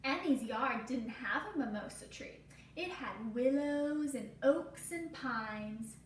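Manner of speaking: gentle storybook read-aloud for a class; reading to children. Acted. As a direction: tell the story slowly to little listeners. Reading picture book to class.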